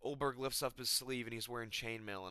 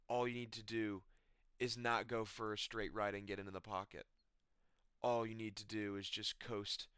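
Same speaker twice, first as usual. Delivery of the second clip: lower, softer, solemn voice of the gods; a lightly voiced divine proclamation, lower and softer; the gods handing down a lower, softer decree; 3 semitones lower, 5 dB quieter than usual. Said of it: "the gods came down... and they said".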